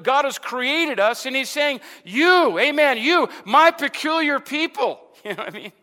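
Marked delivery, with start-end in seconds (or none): 2.0-5.0 high, loud "you", repeated with force; stress on YOU. Acted. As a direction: preach it out, hitting each "you". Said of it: "God was emphasizing you".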